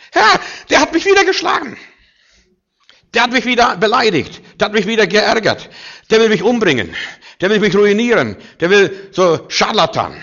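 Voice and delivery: high, loud wailing plea; whiny complaint to God. Acted. Believer whining to God about an enemy, high pleading wail. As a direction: complain to the Lord like a hurt child.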